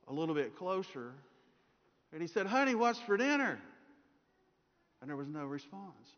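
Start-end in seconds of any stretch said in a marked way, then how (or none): 2.5-3.6 lightly raised pitch, calling across the kitchen; husband calling to wife. Acted. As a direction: call out to your wife from behind her. Husband asks a third time.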